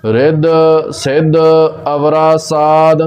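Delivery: slow, measured Gurbani recitation with held vowels; scripture recitation. Shown as a demonstration. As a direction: recite it slowly, drawing out each word. (ਠਹਿਰ ਕੇ ਗੁਰਬਾਣੀ ਪਾਠ)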